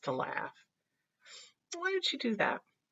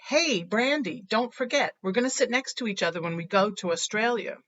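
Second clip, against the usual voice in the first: calling out; 4 semitones higher than usual. Acted. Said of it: "I call out".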